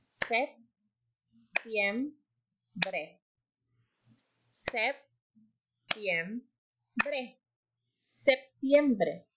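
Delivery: septiembre split into syllables; sounding out words. Shown as a demonstration. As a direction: break septiembre into syllables slowly. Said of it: "separar en sílabas la palabra".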